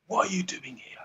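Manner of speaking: soft unvoiced whisper full of love. Shown as a demonstration. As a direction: whisper it gently, like God calling. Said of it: "It's a whisper".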